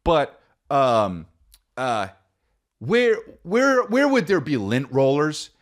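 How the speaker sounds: high, timid polite question; polite ask. Retold or imitated. Comedian retelling asking a clerk, timid high voice.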